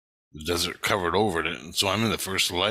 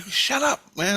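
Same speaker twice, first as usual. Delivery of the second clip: retold snap; 12 semitones higher, slower than usual. Retold snapping at scared kid.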